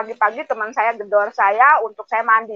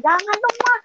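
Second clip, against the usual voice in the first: hoped-for plea; 11 semitones higher than usual. Retold or imitated. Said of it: "Saya berharap anak saya melarang".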